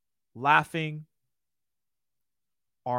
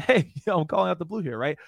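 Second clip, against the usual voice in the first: easy natural chuckle, louder start; natural laugh; 2 semitones higher, 5 dB louder, faster than usual. Shown as a demonstration. Trainer showing the right laugh, easy friendly chuckle. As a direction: laugh lightly like you mean it. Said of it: "So this is, like, my laugh".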